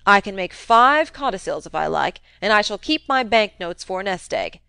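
put-on a crusty old man needling his nephew, loud; gruff old uncle. Old uncle goading nephew Fred about the rumour, crusty taunt. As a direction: jab at him like a sly old miser.

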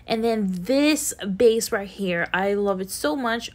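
talking while eating a popsicle; words round a mouthful of popsicle; mouth full. Real, not acted. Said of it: "I'm eating a chocolate, um, popsicle".

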